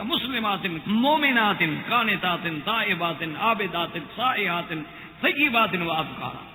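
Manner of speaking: each word set apart with a falling close; measured Quran recitation. Shown as a demonstration. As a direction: recite the list calmly, word by word. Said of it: "اس لیے قرآن کہتا ہے کہ".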